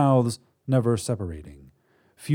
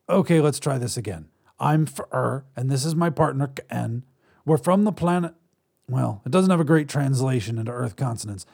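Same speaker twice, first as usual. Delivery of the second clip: lightly raised alien voice, earnest; a hint of a patient alien; 3 semitones higher than usual. Alien introduces itself.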